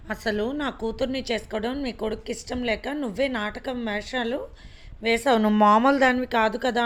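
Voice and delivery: sneering, building to a loud angry jab; sarcastic anger. A narrator's reading. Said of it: "వెటకారంగా కోపంగా". (వెటకారంగా కోపంగా, చివర్లో గట్టిగా)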